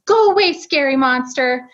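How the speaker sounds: lightly voiced little toddler; preschooler voice. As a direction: echo it like a small child. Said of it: "in his little toddler voice".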